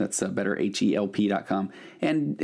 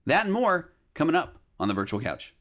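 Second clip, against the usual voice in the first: announcer teaser; 4 semitones higher than usual. Acted. Host teasing today's special episode to listeners, announcer read.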